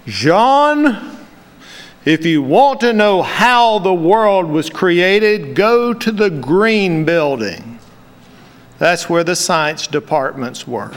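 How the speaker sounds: a hint of a Cuban accent, warm and slow; light Cuban accent. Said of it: "he said in his beautiful Cuban accent".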